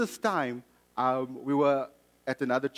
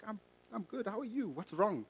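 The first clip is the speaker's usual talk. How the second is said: wary phone reply; 7 semitones higher, 6 dB quieter than usual. Retold or imitated.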